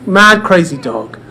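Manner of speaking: ordinary delivery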